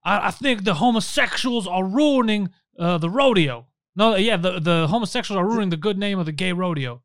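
mock a Southern rodeo man, lightly; lightly done Southern accent. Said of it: "a Southern guy".

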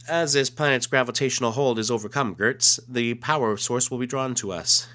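lightly voiced alien officer giving orders; alien commander. Reads alien's comic dialogue.

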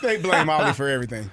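sarcastic. Real, not acted. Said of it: "Notice the sarcasm there".

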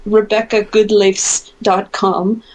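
name said the American way; Americanized pronunciation, slow; American accent. Shown as a demonstration. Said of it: "if you say it with an American accent".

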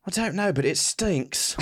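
lightly put-on fancy English. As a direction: grumble in mock-posh English. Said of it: "Is this fancy English".

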